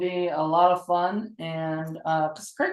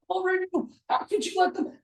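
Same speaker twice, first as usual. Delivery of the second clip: mock yelling; 11 semitones higher, 4 dB quieter, faster than usual. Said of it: "she's all yelling".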